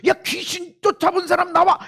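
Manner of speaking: high, loud calling-out; mock roll-call shout; loud summons. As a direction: call them forward at full voice. Acts out the Lord summoning people.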